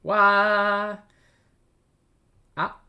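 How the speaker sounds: high, loud excited cry; a big excited exclamation. Retold or imitated. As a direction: blurt it out like a thrilled kid. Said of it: "She's saying".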